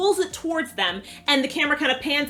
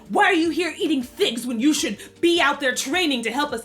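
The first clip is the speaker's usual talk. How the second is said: scolding Ivan. Retold or imitated. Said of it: "then he's like".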